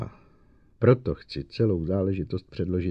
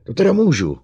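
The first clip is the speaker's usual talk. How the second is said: through gritted teeth; 7 semitones higher, 9 dB louder, faster than usual. A narrator's reading. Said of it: "procedil Bogart mezi zuby".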